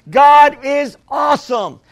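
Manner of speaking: 2 loud exultant proclamation; 3 shout his praise to the whole room; 4 fired-up preacher calling out to the congregation; 1 preaching shout. Real, not acted.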